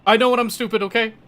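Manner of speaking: high, loud, whiny protest, half-joking; mock whiny defence. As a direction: play the scolded kid whining back loud and high. Defensive outburst after being scolded.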